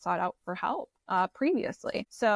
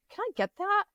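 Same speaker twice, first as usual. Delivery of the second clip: imitating the officer; 12 semitones higher than usual. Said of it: "He's like".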